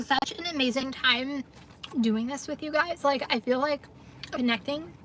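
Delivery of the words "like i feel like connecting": chewing salad. Real, not acted. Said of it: "Sorry, chewing".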